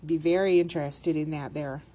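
slight Minnesotan accent slipping out. Real, not acted. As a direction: let a Minnesotan accent creep in. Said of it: "gotta get rid of this Minnesotan accent".

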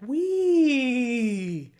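a first try at a gleeful "Wee!", not all in; weak wee. Shown as a demonstration. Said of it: "that didn't really sound that good".

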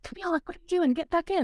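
a mock-stern teacher ordering her back in; imitating strict dance teacher. Dance teacher scolding in story.

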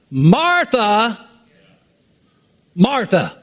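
"Martha, Martha," the first rising, the second falling; gently calling twice. Shown as a demonstration. Jesus gently getting Martha's attention. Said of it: "but he said it twice".

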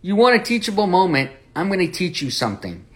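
a teacher catching his students out, a touch playful; knowing Jesus. Retold or imitated. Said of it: "Jesus is like".

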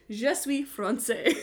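slow, proud stab at French; "Je suis français" said slowly, in a put-on French accent, voice rising at the end; mock French. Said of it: "I am French".

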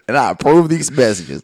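Doctor Phil. Retold or imitated. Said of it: "Hi, I'm Doctor Phil".

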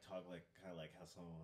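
ordinary talk, nothing marked

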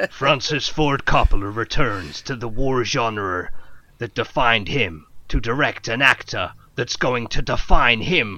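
dramatic trailer narration building to shouts; movie trailer voice. Pretend. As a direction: sell it like an epic war film trailer.

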